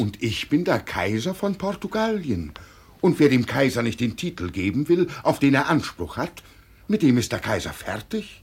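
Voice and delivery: loud lordly threat; haughty emperor. Acted. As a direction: lay down the law as emperor. Mad emperor asserts his title.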